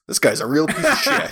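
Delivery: laughing. Real, not acted. Laughing at the character.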